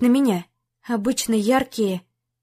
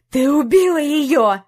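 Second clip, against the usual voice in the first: slow, higher and louder accusation; angry shout; 4 semitones higher, 5 dB louder than usual. A narrator's reading. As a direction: hurl the blame at her. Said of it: "крикнул он". (гневный крик)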